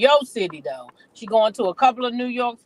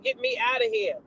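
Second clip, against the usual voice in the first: much higher, softer mock plea; mock squeal; 13 semitones higher, 4 dB quieter than usual. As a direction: squeak it out in fright. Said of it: "She said".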